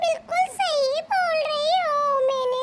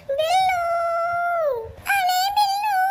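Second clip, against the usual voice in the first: tearful calling; 3 semitones higher than usual. Acted. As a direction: call him back through tears. Girl cries after fleeing Billu. (रोते हुए बिल्लू को पुकारना)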